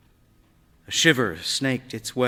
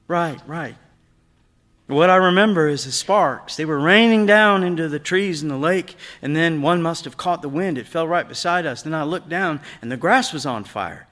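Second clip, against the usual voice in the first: put-on young boy Eric, higher and louder, recalling with rising excitement; boy's voice, higher, telling a memory fast; 7 semitones higher, 9 dB louder than usual. A narrator's reading. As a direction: voice the son, pitched up and eager.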